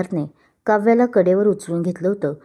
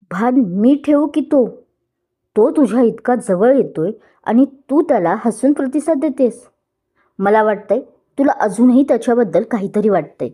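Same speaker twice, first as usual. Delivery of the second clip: higher, raised jealous accusation; rash anger; 3 semitones higher, 3 dB louder than usual. Acted. Groom accusing bride rashly, jealous anger. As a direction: blurt it out in anger. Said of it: "अविचाराने बोलून टाकलं".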